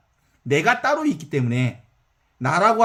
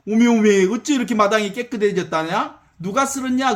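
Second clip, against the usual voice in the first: surprised exclamation; 3 semitones higher than usual. Acted. Choi Jinsa finds swept yard.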